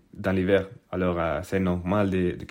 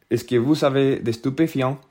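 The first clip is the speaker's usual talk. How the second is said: slow stern question; 5 semitones higher than usual. Retold or imitated. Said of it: "dit très lentement".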